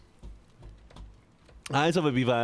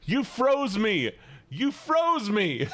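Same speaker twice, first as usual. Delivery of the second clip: stunned slow outcry; 6 semitones higher, much slower than usual. Real, not acted. Streamer frozen in game.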